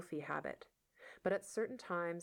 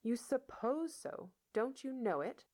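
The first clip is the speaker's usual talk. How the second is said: incredulous; 7 semitones higher than usual. A narrator's reading. Marilla presses Matthew.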